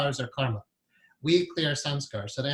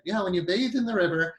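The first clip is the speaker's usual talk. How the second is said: put-on Indian accent; 3 semitones higher than usual. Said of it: "he was in the Indian accent".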